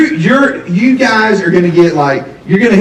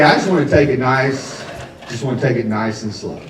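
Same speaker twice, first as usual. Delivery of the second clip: softening to hushed; 5 semitones lower, 7 dB quieter than usual. Acted. To the audience about the relationship, fading soft. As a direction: lower and much softer, fading out. Soft, drops to near hush.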